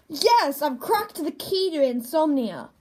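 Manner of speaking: slow and halting, with pauses; slow stuttering delivery. Acted. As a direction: drag the punchline out haltingly. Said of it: "See, the pauses".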